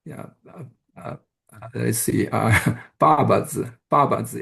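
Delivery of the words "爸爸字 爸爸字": "爸爸字" with a firmer first syllable; tone pattern. Shown as a demonstration. Lecturer gives word for bunch of things, tone pattern. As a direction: lean on the start of "爸爸字". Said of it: "different tone patterns for different".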